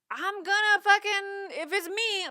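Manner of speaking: high, loud, heated rant; furious outburst. Real, not acted. Telling off people who post racist stuff, a high loud furious rant. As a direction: let it boil over at them. Vents about racist posts.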